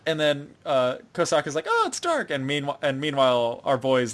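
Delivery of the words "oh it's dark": high-pitched mock fright at normal volume; imitated panic. Kosaka locked in the dark room, imitated panic. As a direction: squeak it like a scared girl, hammed up.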